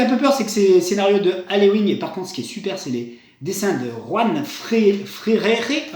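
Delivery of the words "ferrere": Ferrere said the Spanish way, rolled r, ending in a clear e; Spanish pronunciation. Shown as a demonstration. Naming the comic artist, trying a Spanish pronunciation. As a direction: try Ferrere as a Spaniard would say it. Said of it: "ça doit se dire comme ça en espagnol".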